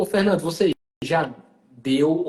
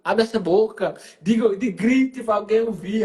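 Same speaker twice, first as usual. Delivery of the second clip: retold nagging, rising in pitch; insistent urging; 5 semitones higher, slower than usual. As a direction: press them to speak up, pitch climbing. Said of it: "eu fico cobrando pra ela".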